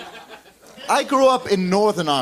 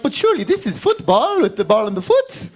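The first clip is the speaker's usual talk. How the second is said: high-pitched, incredulous objection; hammed-up bewildered appeal; mock pleading protest; 6 semitones higher than usual. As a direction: plead the obvious in a raised voice. Rest of world protests to Americans.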